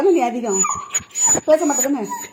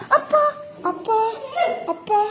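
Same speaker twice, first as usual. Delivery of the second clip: high laughing sigh of exasperation; 8 semitones higher, 4 dB quieter, slower than usual. Real, not acted. Owner fed up with her noisy pets, high laughing exasperation.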